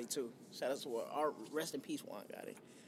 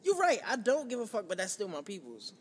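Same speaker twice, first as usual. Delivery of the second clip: defiant outburst; 5 dB louder than usual. Real, not acted. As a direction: throw caution away, loudly.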